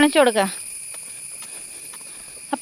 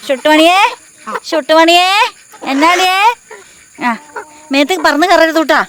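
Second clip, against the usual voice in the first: calling a pet; 5 semitones higher, 4 dB louder than usual. Real, not acted. Calling pet chicken by name.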